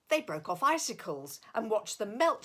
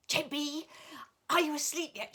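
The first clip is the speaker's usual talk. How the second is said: calling out; 7 semitones higher, faster than usual. A narrator's reading. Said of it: "she called".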